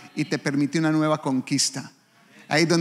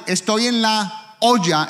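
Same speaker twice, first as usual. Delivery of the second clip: slow lament; 4 semitones higher, 3 dB louder, slower than usual. Shown as a demonstration. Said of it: "Uno dice".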